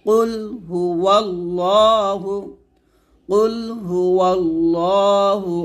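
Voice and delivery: slow drawn-out চant of কুল হু ওয়াল্লাহু; slow recitation. Shown as a demonstration. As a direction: recite slowly and evenly. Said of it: "তাহলে একসাথে হবে".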